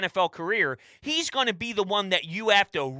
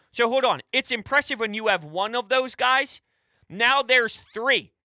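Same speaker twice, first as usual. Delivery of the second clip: normal talking voice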